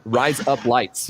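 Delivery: slow, drawn-out Australian accent; broad, slow Australian vowels; cartoony Australian accent. Shown as a demonstration. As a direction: stretch it into a cartoon Australian twang. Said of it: "it's very cartoony".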